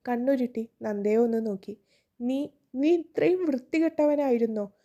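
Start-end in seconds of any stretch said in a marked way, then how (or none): 2.2-4.7 a moderate narrated outburst, somewhat higher; furious yell. A narrator's reading. Woman grabbing his collar, yelling at him in mild fury. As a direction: spit out the accusation in disgust. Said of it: "അലറി".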